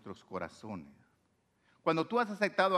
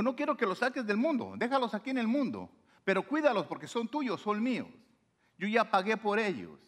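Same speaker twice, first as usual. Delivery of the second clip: Jesus pleading; 7 semitones higher than usual. Retold or imitated. Voicing Jesus praying to the Father.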